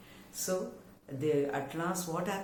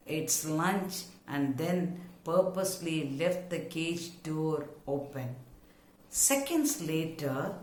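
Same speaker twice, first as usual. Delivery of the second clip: measured textbook reading, phrase by phrase; story reading. A narrator's reading. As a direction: read the story out clearly for pupils to follow. I'll read from that paragraph.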